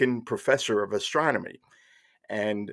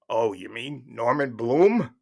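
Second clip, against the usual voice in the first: lightly voiced host, slow questioning reply; radio host; slower than usual. Larry King answering a caller, lightly voiced. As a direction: draw it out as a host checking the name.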